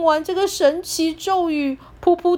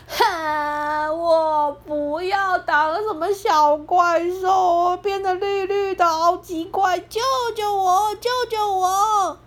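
crying; 4 semitones higher, slower than usual. Acted. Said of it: "大哭说".

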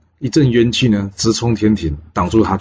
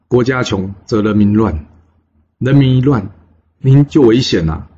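urgent plea; 4 dB louder than usual. Acted. Minister pleading urgently with king.

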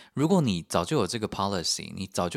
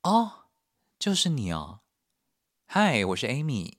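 high drawn-out oh then slow sweet intro; ominous sweet greeting; 4 semitones higher than usual. Retold or imitated. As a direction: greet him like a knowing villain. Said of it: "他打开来看". (意味深长地慢慢打招呼)

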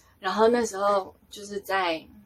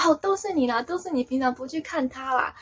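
higher-pitched bickering accusation; mock blaming; 5 semitones higher than usual. Angels blaming each other for her crying, bickering. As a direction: imitate squabbling over whose fault it is. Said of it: "他们就在那边怪来怪去".

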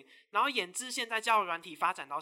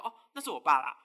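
laughing excuse; 4 semitones lower, 7 dB louder than usual. Retold or imitated. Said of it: "他还硬要掰说".

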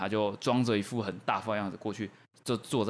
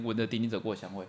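闻着丁丁走过的香味 said softly and straight, no laugh; deadpan restating; 6 dB quieter, faster than usual. Real, not acted. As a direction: keep it dry and quiet. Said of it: "我重述他的内容".

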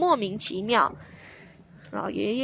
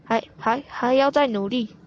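stammering. Acted. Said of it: "书生结结巴巴地说".

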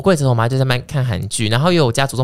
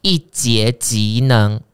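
ad read. Acted. Host reading a sponsor ad to listeners, salesy. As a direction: read the sponsor spot like a pitch. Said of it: "好，业配结束".

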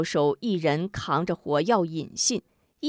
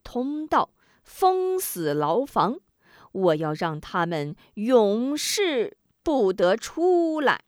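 slow, gloating commands; gloating villain; slower than usual. Acted. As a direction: savour the order. Villain orders prisoners sealed.

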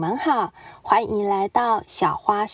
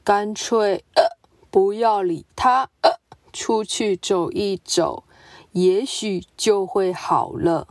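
muttering; 2 semitones lower than usual. Acted. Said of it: "它喃喃自语".

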